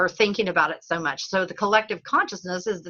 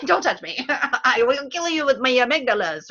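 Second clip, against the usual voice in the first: mock threat; 2 semitones higher than usual.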